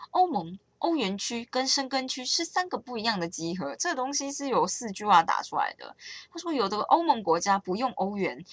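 lightly voiced lecturing friend; know-it-all lecture. Friend Ian lecturing on EU zones, lightly mock-pedantic. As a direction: reel off facts like a mild pedant. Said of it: "接下来会得到无限小百科".

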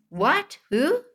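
high, startled what and who; shocked father. Retold or imitated. Father shocked by the caller, high startled yelp. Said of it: "his voice goes on funny".

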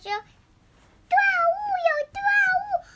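high, slow sing-song critter voice; character voice. Pretend. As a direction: stretch it out, squeaky and high. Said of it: "他说".

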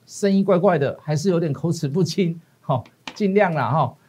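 stuffy nose from a cold; nasal, slightly slurred with a cold. Real, not acted. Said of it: "这个感冒当中声音怪怪的，还是有点口齿不清".

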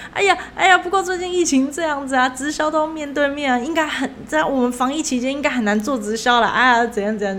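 a lightly voiced flustered excuse, drifting back to normal; panicky coworker. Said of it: "我同事就突然惊醒过来". (同事慌张推托，开头音调偏高，渐渐回落)

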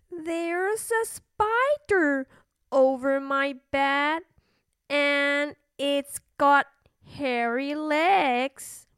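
put-on slow, drawn-out child's report; uneasy little princess. Princess telling queen about spider, slowly and uneasily. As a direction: stretch out the creepy detail slowly.

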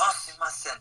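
put-on high, squeaky Japanese-accented apology; mock a cute Japanese accent. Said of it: "很可爱的日本腔".

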